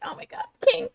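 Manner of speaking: high, breathy-sounding swoon over her man; swooning fangirl. Retold or imitated. Podcaster mimicking the girl swooning at her boyfriend, high and gushing. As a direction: gush it up high like a smitten girl. Voicing smitten girl in recap.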